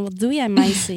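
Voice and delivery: put-on Rotterdam accent. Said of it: "Rotterdammers die zo praten".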